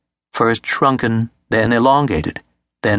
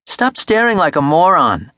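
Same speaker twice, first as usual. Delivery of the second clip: higher-pitched sibling jibe; scornful brother; 6 semitones higher than usual. A narrator's reading. Eric to his staring brother, mildly scornful. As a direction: taunt in a higher boyish pitch.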